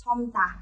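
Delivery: "Chom tà" with "Chom" closed on M; read with final M. Shown as a demonstration. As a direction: hum the lips shut on "Chom" before "tà". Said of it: "đọc theo chữ miềm".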